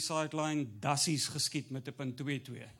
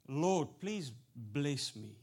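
mock earnest prayer; 2 semitones lower, much slower than usual.

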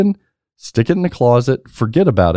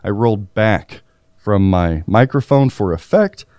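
winded, catching breath; 3 semitones lower than usual. Real, not acted. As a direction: speak while still winded. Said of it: "I was already out of breath".

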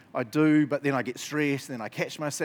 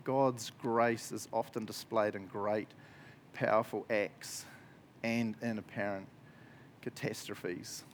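slower, dropping to a hush at the end; slow, emphatic reread; 3 semitones lower, 5 dB quieter, slower than usual. Shown as a demonstration. Pastor rereading the quote to the congregation, slow and weighty. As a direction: lean on every word the second time. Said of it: "Let me read that line again".

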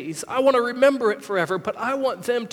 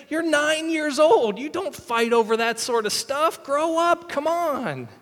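higher, exasperated telling-off; scolding dad; 5 semitones higher than usual. Retold or imitated. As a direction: scold the squabbling kid. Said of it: "and I say".

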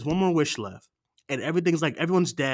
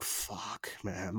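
very soft, low, tired grumble; quietly exasperated and weary; worn-out muttered curse; 6 semitones lower, 15 dB quieter than usual. Retold or imitated. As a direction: let it drop away low, drained. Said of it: "I'm tired".

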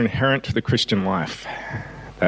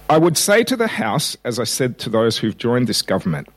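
reading a famous speech; 2 semitones higher than usual. Shown as a demonstration. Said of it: "I'm going to read the words of that speech".

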